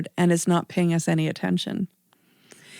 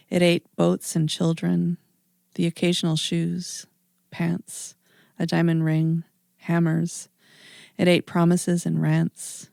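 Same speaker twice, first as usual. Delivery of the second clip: measured, even poetry reading with pauses between images; poem reading. Acted. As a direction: read it evenly, line by line, letting each image land. Reads own poem aloud.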